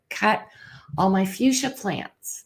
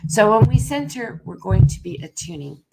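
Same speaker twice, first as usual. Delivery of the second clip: bumping the microphone. Real, not acted. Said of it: "Sorry about the bumping on the microphone".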